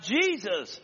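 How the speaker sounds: mildly acted cry for mercy; calling out. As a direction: plead aloud, stretching the last words. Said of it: "Are you the one calling out".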